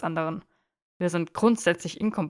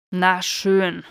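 Na schön burst out louder, falling; exasperated giving in; 8 dB louder than usual. Acted. Draco finally giving in to Theo, loud and exasperated. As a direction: throw up your hands and give in. Grudging admission, said twice.

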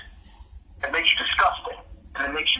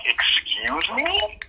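drawn-out, rising mock-offended question; offended disbelief; 3 semitones higher, 4 dB quieter, much slower than usual. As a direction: stretch it out softly in affronted disbelief. Retells own offended reaction.

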